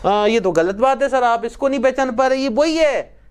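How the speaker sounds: a pupil sure he's right, pushing back; student insists to the teacher he's wrong, rising indignation; indignant student protest. Acted.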